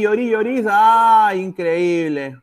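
loud cry of disbelief; excited shout. Real, not acted. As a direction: shout it out, amazed. Penalty saved, live reaction.

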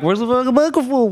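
high-pitched, hammed-up frantic demand; mock frantic urgency. Guest re-enacting himself at the restaurant, mock frantic. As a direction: blurt it high, playing up the panic. Replaying his own restaurant outburst.

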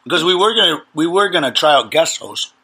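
talking while chewing gummy bears; mouth full. Real, not acted. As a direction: speak round a mouthful of candy. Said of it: "Sorry, I'm eating gummy bears".

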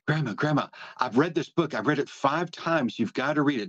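a grandmother mimicking her granddaughter's excitement; excited granddaughter. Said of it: "she said".

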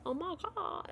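high, soft mock swoon; exaggerated reaction. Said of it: "he didn't say it like that".

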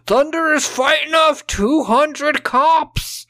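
high, slow hyped DJ voice; radio DJ voice. Retold or imitated. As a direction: hype it like a pirate radio DJ. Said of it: "Dancing Crow was on the radio going".

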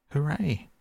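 very high cheer; jubilant, rising then falling; delighted cry. A narrator's reading. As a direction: celebrate with a high, swooping cry. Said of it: "the rat cried".

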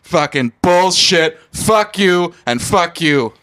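angry Boston guy. Acted. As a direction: rant at the old man in a light Boston accent. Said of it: "like, an angry Boston guy".

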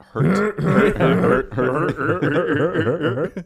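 imitated Seth Rogen laugh. Shown as a demonstration. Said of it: "How would you get the laugh?".

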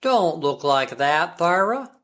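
put-on old friend pitying the stricken mother; pityingly. A narrator's reading. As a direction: plead with her kindly. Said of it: "said Carl White pityingly".

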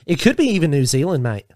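casual Aussie accent, ending on "mate"; relaxed Australian or New Zealand lilt. Shown as a demonstration. Asking Australians to rate it, put-on Australian accent. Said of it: "rate my accent".

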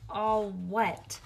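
usual speaking voice

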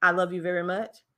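plain, even run through the words; monotone. Shown as a demonstration. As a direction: say it with no word stressed. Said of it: "hear the difference on how that sound versus saying".

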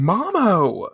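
high anguished cry. Retold or imitated. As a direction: cry out for him. Usagi crying out.

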